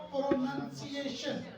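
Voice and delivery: "प्रोनंसिएशन" slowly, with "nun" in the middle; noun pronunciation. Shown as a demonstration. Teacher recapping for students, slow short "nun". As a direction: say "प्रोनंसिएशन" slow, as pro-nun-see-ay-shun. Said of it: "तो क्या word है?".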